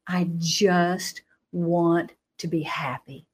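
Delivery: voiced, drawn out and earnest; slow, pleading. A teen slowly repeating her plea to the booming voice. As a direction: ask for it slowly, almost begging.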